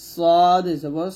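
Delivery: সদ জবর স drawn out slowly, with স dark and heavy; the teacher shows the correct heavy sound to students, slowly; heavy sad. Shown as a demonstration. মোটা স উচ্চারণ. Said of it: "যেরকম হরফ সেরকম উচ্চারণ করতে হবে".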